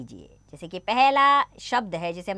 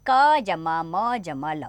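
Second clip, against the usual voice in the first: slow spelling out; 3 semitones lower, much slower than usual. Shown as a demonstration. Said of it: "तीन वर्णों से बने शब्द पढ़ेंगे".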